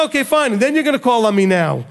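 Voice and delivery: lightly voiced wry parent; mild sarcasm, not angry; sarcastic God. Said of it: "He said".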